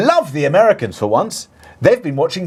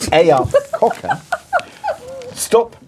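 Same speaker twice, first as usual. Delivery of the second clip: put-on Northern accent; 7 semitones higher, slower than usual. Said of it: "ever say in a Northern accent".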